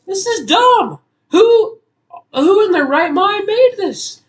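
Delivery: high, loud furious yelling; real rage at the game; yelling at the level designer; angry rant. Real, not acted. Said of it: "I apologize for that".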